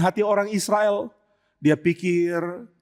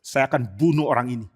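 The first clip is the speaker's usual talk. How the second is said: Absalom, grim threat; 7 semitones lower than usual. Acted. Absalom's murderous thought.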